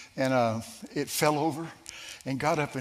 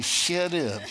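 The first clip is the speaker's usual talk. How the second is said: laughing quote; 4 semitones higher than usual. Retold or imitated. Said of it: "Bobby told me".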